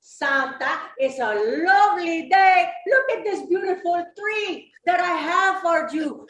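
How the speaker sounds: sweet mock angel; lightly voiced angel greeting Santa; a touch of a sweet angel. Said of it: "And she said".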